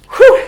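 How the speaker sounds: a loud, high nervous whoosh of breath; nervous blow-out. Real, not acted. Bracing herself before reading English aloud, nervous loud whew. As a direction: psych yourself up with one sharp breath. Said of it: "Allez, je me lance".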